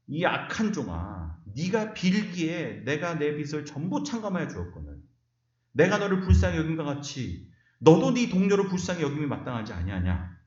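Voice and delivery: angry king's rebuke. Retold or imitated. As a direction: scold the wicked servant from the throne. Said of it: "주인이 노해서". (화난 왕의 꾸짖음)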